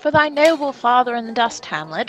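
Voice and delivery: lightly voiced regal stepfather; King Claudius. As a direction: play the new king offering hollow comfort.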